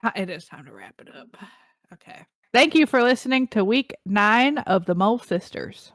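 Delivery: put-on playful Southern accent sign-off. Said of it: "Why am I speaking in a Southern accent".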